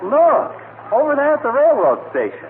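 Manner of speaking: excited. Acted. Spotting the crowd at station.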